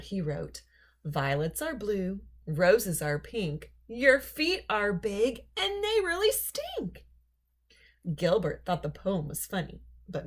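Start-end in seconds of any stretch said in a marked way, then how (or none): 1.0-7.1 slow teasing build that jumps up at the end; cheeky rhyme. Acted. Gilbert writing a rude poem for Lewis, gleeful and mocking. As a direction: savour the rude rhyme, then squeal it.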